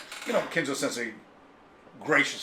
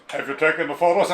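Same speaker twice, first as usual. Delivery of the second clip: voicing Takeshi; 4 semitones higher, 8 dB louder than usual. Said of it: "he comes back and he goes".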